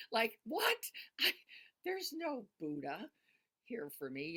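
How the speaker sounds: high, baffled mock protest; confused outsider voice. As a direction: play the puzzled newcomer. Voicing a confused newcomer.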